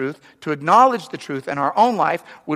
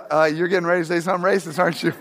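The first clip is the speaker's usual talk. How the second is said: laughing, knowing; much faster than usual. Retold or imitated. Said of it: "You're like".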